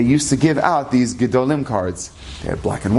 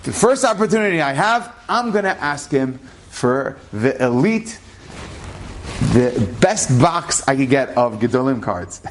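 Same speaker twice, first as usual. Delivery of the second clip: put-on childish excitement. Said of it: "That's what I was thinking".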